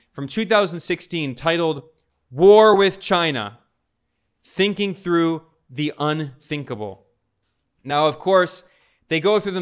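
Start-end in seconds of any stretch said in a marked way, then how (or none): 2.3-7.1 slow and loud, leaning hard on war; dramatic title read. Acted. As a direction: read the title slowly, landing heavy on war. Reading out alarming report title.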